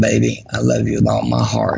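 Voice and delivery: ordinary talk, nothing marked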